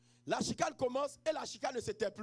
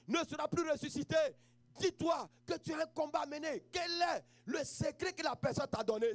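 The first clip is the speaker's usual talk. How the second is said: preaching at full force. Acted. Pastor exhorts the grieving to rise.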